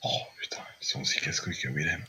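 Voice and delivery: whispered annoyed aside; under the breath, fast; whispering. Real, not acted.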